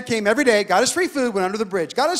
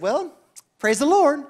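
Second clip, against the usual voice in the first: polite encouragement; 4 semitones higher than usual. Retold or imitated. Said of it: "never discourage your dream".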